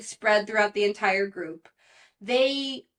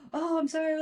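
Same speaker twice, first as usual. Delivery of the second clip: high, flustered sorry; startled apology; 8 semitones higher than usual. Retold or imitated. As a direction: caught out and apologizing. Aaron caught, apologizes.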